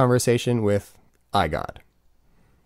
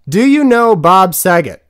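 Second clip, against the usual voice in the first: higher, louder, slow exasperated demand; frustrated shout; 8 semitones higher, 9 dB louder, slower than usual. Acted. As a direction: drag each word out, fed up with the bot. Asking the question again, fed up.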